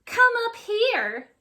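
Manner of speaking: high, loud luring call; beckoning monster teacher. A narrator's reading. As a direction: lure him up to the desk. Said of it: "she beckons with her claw".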